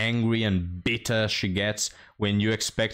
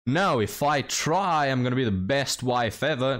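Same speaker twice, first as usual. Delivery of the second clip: mock boastful woman; 3 semitones higher than usual. Lightly mocking women who claim they'd be the best wife. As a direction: drag it out like a boastful claim you don't believe. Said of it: "these people that say".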